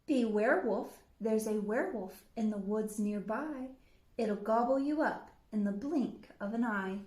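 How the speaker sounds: a touch of a loud warning. Acted. Red warning the wolf of a werewolf, mildly loud. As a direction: warn the wolf with a bit of force. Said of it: "She said".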